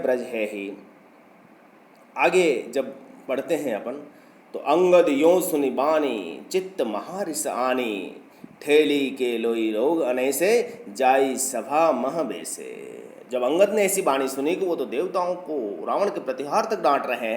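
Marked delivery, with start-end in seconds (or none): 4.6-6.5 slow, louder recited opening of the verse; slow recited verse line; verse recitation. Acted. Begins reciting next verse. 6.5-13.0 very slow, measured chanting; slow Hindi verse recital; verse recitation. Acted.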